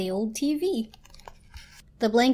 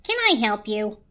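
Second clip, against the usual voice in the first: polite curiosity. A narrator's reading. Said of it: "in a tone of polite curiosity".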